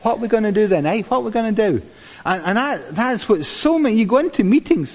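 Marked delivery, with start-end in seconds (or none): 0.0-1.8 badly faked Cockney, pitched higher; higher-voiced mock Cockney; rotten cockney. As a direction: do an amateur Cockney vulture, a little high. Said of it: "they're, they're cockneys".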